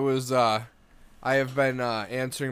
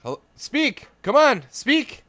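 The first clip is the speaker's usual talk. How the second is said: higher, louder demand, dragging come on; a caller pestering to be spoken to; mock impatient phone demand; impatient grandpa; 11 semitones higher, 6 dB louder than usual. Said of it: "and it's like".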